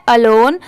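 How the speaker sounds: अलोन said as one word; pronunciation demo. Shown as a demonstration. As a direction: model अलोन for learners. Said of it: "इसकी pronunciation क्या है?". (अलोन का साफ़ उच्चारण)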